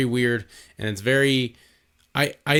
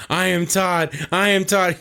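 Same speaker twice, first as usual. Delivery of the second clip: mild mock yell, pitched higher; mock screaming; 5 semitones higher than usual. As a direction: repeat it as a parody scream. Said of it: "While they're screaming this".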